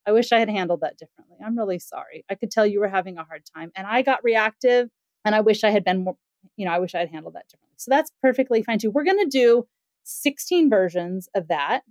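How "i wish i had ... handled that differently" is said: sincere apology. Shown as a demonstration. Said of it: "go back and be like".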